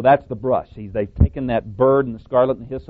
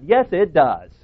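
louder, emphatic rebuttal with some sarcasm; sarcastic; 3 semitones higher, 6 dB louder than usual. Real, not acted. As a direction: insist firmly, a sarcastic edge. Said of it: "Sarcastic or not".

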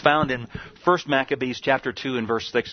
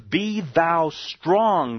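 slow solemn charge; 6 semitones higher, much slower than usual. Acted. Preacher rereading David's charge.

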